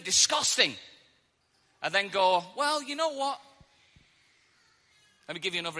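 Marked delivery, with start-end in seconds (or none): 2.6-3.4 high-pitched, put-on second thoughts; tempted reconsidering. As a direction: go high as you talk yourself round. Acted reconsidering of something disgusting.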